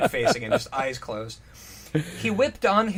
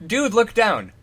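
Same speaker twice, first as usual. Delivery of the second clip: mild shout; 6 semitones higher, 7 dB louder than usual. Acted. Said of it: "Hunter looked down".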